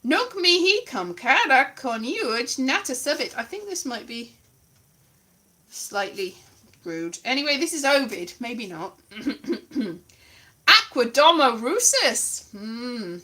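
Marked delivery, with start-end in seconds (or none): 0.0-3.4 Latin read aloud in a bad accent. Reading Ovid to the audience, bad Latin accent. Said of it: "bad, bad Latin accent". 10.7-12.5 loud Latin in a bad accent. Reading Ovid to the audience, loud bad Latin accent. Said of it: "bad, bad Latin accent".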